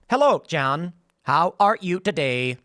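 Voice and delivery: stilted, spliced robot greeting; choppy robot voice. Retold or imitated. Mocking how robots used to talk, stilted robot voice. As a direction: say it like an old phone robot, word by word. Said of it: "it would talk like this".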